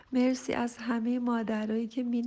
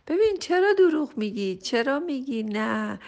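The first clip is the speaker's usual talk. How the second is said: a teasing scold with a raised voice; mock scolding; 3 semitones higher, 8 dB louder than usual. Real, not acted. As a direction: call the listener out, half-teasing. Scolding listeners who refuse.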